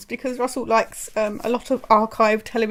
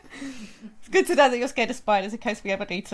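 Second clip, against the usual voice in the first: amused. Real, not acted. Aunt teasing her nephew over his spiders answer, amused. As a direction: let the giggles trail into the words.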